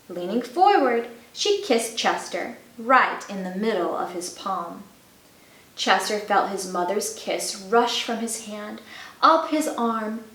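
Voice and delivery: gentle storybook narration; reading to children. A narrator's reading. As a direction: read it like a bedtime story. Reads a picture book to children.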